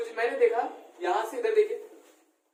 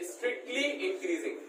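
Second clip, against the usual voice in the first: heading read out very slowly, softer; measured classroom dictation; 3 semitones higher, 5 dB quieter, much slower than usual. Real, not acted. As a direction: stretch out each word for note-takers.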